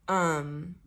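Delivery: small plea breaking into laughter; laughing plea. Acted. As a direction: ask for help, then crack up.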